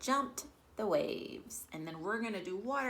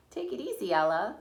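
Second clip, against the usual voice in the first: calling out; 3 semitones higher, 9 dB louder than usual. Acted. Grandma calling to galloping Ella.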